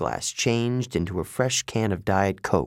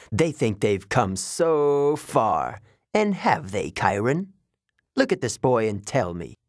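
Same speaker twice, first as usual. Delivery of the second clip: lightly voiced bored god; 3 semitones higher than usual. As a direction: sneer at mortals, unhurried. Mister D mocks mortals.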